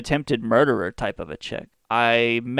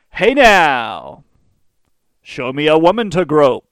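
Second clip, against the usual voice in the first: hey now; 6 dB louder, slower than usual. Retold or imitated. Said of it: "giving my grandparents the Hey now".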